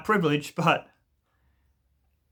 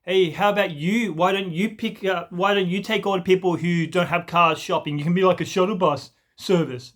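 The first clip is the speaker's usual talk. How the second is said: higher, mocking know-it-all jab; douchey sneer; 4 semitones higher than usual. Smug commenter taunting the poster about shopping, sneering. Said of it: "in a fucking douchey way".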